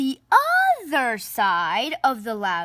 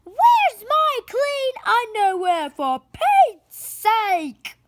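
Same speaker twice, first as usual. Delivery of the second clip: much higher, louder bellow, the last words slow; 10 semitones higher, 6 dB louder than usual. Acted. Pa Loud hunting his underwear, a loud high bellow. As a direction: bellow for your underwear through the house. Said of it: "Pa Loud bellowed".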